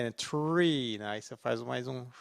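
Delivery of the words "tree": "Tree" with a stretched E; "Tree" com o E alongado; long E in tree. Shown as a demonstration. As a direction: drag out the E of "Tree". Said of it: "tem que dar uma curtidinha no E".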